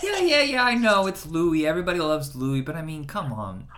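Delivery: lightly voiced eye-rolling woman; mock whiny complaint. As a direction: brush it off like a bored celebrity. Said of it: "But she's like".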